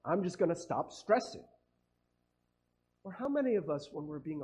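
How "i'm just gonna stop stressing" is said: sarcastic mock relief.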